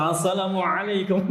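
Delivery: "Assalamualaikum" with a showy throaty ain on "alaikum"; playfully proper Arabic ain in "Assalamualaikum"; newly fluent ain. Retold or imitated. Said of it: "sekarang fasih langsung". ("Assalamualaikum" fasih dengan ain yang jelas)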